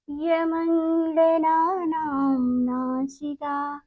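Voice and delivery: slow, measured chanting of the rule, each syllable drawn out; slow sutra recitation. Shown as a demonstration. Teacher chanting the Sanskrit rule slowly for children to repeat. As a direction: intone it slowly like a classroom mantra.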